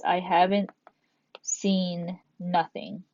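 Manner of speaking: slow, lingering "seen nothing" in a mock casual voice; imitating a common double negative, slowly; drawn-out imitation. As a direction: drag out "seen nothing" like someone who says it. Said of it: "some people say this".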